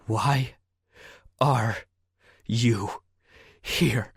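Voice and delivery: each word "Why" "are" "you" "here" spaced apart and pressed; slow menace. Acted. Gun pointed, slow interrogation.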